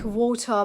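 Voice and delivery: WATER with a crisp T and silent R; clear British T. Shown as a demonstration. Teacher contrasting British with American, clear T in WATER. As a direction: keep the T in WATER a true T. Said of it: "a T in the middle of a word".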